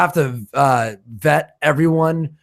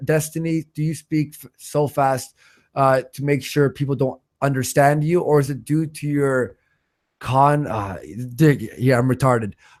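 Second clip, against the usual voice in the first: ordinary delivery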